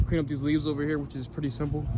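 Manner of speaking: out of breath from raking. Real, not acted. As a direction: talk between breaths after yard work. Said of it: "Sorry, guys, if I'm a little bit out of breath".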